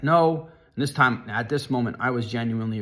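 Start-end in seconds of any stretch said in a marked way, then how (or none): 0.0-0.5 high, loud scream back; retold panicked scream of no. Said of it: "I screamed back".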